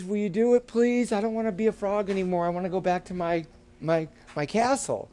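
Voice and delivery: a hint of a beseeching princess, easing toward the end; pleading frog princess. Frog princess begging boy for a kiss, pleading.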